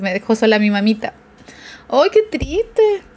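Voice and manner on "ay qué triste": slow sad sigh. Real, not acted. Moved by the song's lyrics.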